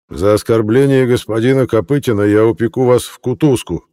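high, loud, blustering town mayor; an outraged official putting a drunk in his place; a pompous mayor raising his voice; indignant mayor. Acted. Mayor threatens reporter.

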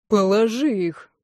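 slow, tight, indignant order; ringing with indignation. A narrator's reading. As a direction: hold back fury, each word ringing. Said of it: "звенящим от негодования голосом".

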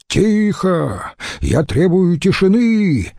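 high commanding bark for silence. Acted. Presiding senator silences the rowdy hall with a high bark. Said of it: "рявкнул Марцел-старший".

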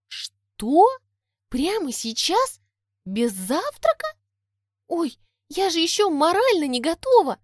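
put-on high, flustered fairy girl; cartoon princess. A narrator's reading. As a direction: panic about being unready. Tori in a panic.

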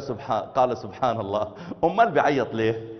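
deadpan Egyptian quip; sly Egyptian wonder; wry Egyptian punchline. Retold or imitated. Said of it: "أخ مصري".

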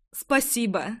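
sincere heartfelt thanks. Acted. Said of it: "искренне сказала я".

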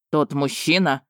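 a hint of a jealous dragon's growl; growled question. Jealous dragon asking his wife about the man, mild growl. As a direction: growl it low and resentful. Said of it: "рыкнул мне Рейн".

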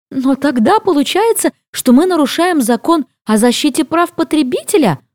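a touch of panic in the voice; gasping in dismay. A narrator's reading. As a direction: Suzie realises they broke the law, mildly alarmed. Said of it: "охает Сьюзи".

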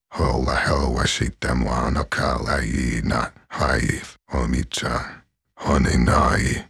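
put-on a mild cute anime girl voice; sweet idol girl greeting fans; Kotori impression. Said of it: "an impression of Kotori from Love Live".

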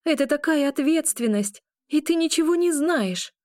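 high, loud angry shout; a high, loud, panicked shout. A narrator's reading. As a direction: hurl it at him in panic. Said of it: "выкрикиваю я".

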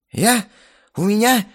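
high, loud startled protest; alarmed protest. Acted. The guy protests to the hero, loud and alarmed. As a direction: dodge it in a hurry. Guy dodges marriage demand.

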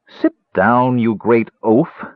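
a sharp, angry snap at the big man. Acted. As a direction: cut him off with a scolding snap. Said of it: "the woman snapped angrily".

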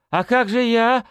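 high, lost little question; not sure what happens now; confused mumble. Acted. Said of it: "растерянно пробормотал князёк".

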